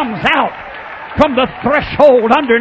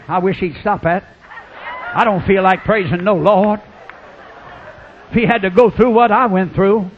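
lower, resentful muttered complaint; sulky inner grumble; 5 semitones lower than usual. Retold or imitated. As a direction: grumble it under your breath. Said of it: "underneath you're saying".

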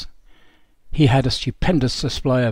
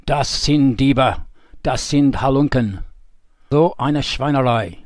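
slow, heavy, lightly fuming German complaint; half-acted indignation, dragged out word by word; slower than usual. Captured general complains of thieving soldiers, slow mock fuming. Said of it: "He fumed".

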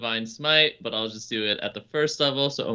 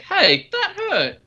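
imitating Yana; 5 dB louder, slower than usual. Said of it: "Yana's just like".

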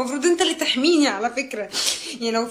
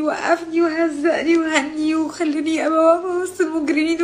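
crying; 4 semitones higher than usual. Real, not acted. Crying over humiliation.

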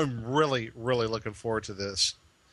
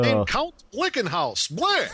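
high, punchy cartoon vampire with a laugh; hammy vampire count; 6 semitones higher, 4 dB louder than usual. Naming a vampire character for the game, hammed-up count voice. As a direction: announce it like a campy vampire. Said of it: "sound like that dude that counts on Sesame Street".

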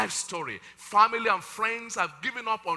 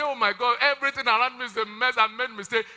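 panicked cry; 4 semitones higher, 5 dB louder than usual. Pretend. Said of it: "I see somebody say".

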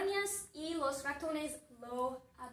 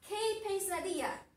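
mild, higher-pitched exclamation; mock yell; 5 semitones higher than usual. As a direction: act out a restrained cry of dismay. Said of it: "Andrés grita". (grito moderado, fingido)

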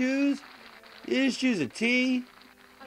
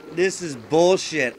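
ordinary delivery

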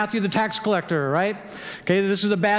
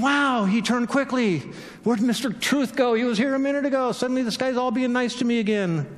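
a bit higher, baffled inner voice; puzzled wonder at a sudden change of mood; imitating someone's surprised thoughts; mock amazed musing; 3 semitones higher than usual. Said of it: "But she's thinking".

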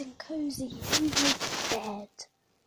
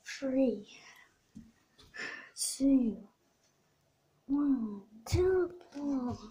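countdown shout; much slower than usual. Pretend. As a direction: call out the spell. Magic countdown called out.

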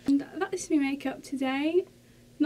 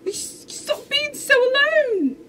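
higher, slow whining plea; tearful plea; 11 semitones higher than usual. Real, not acted. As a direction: beg the screen through tears. Pleading with idol on screen.

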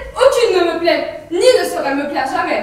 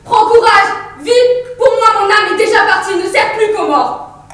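loud, rousing call to courage; rally her sister, full voice; loud exhortation; 3 semitones higher, 4 dB louder than usual. Acted.

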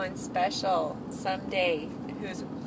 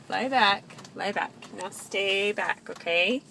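firm; 4 dB louder than usual. Real, not acted. Mother stops patient sitting up.

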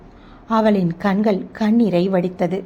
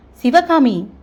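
sharp raised shout of the name; angry shout; 5 semitones higher, 4 dB louder, slower than usual. A narrator's reading. Abirami shouting at Sivakami over the gossip, angry shout. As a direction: cut her off with an angry yell. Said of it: "எதுக்கு கத்துற அபிராமி?".

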